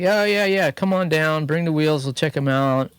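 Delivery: high, eager retelling of the shop guy; eager shop owner. Retold or imitated. Retelling the shop guy inviting him over, high and eager. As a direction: imitate him keen on the phone. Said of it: "and he's like".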